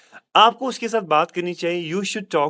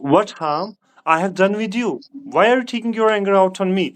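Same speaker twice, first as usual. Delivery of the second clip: slow model sentence; 3 semitones higher, much slower than usual. Shown as a demonstration. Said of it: "हम इस तरह बोलेंगे".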